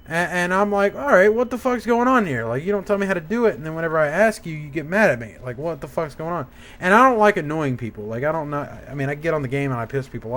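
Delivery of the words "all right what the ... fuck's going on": higher, fast exasperated venting; retold fed-up outburst; imitating exasperation. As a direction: vent at the manager in disbelief. Retelling his angry thoughts at manager.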